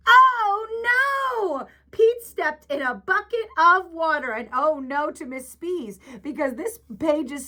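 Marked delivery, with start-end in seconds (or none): 0.1-1.7 oh no gasp. Acted. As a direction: gasp it big for the kids. Gasp at bucket of water.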